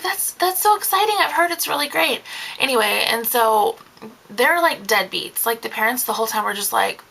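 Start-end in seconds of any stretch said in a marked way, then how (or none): 0.0-2.2 polite enthusiasm. Retold or imitated. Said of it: "And I'm like".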